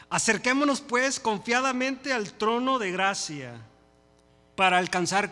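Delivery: loud, slow, high proclamation; scripture reading. Acted. Preacher reads the verse to the brethren, proclaimed reading. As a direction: proclaim the verse to the whole church, stretching the phrases.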